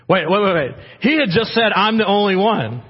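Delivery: preacher stopping himself in surprise; excited interruption. Real, not acted. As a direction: catch the contradiction eagerly. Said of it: "Do you see that?".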